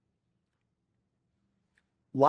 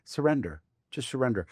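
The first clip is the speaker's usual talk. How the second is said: soft mantra; 2 semitones lower, 4 dB quieter, faster than usual. Shown as a demonstration. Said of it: "me saying that to you".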